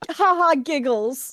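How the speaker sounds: forced words through clenched teeth; through gritted teeth. Real, not acted. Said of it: "she says through clenched teeth".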